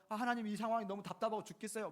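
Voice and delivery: mock lament. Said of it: "가슴을 치면서".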